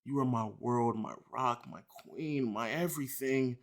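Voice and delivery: soft mock lovestruck plea; mock tender. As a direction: coo the apology softly. Reading fan's apologetic love text.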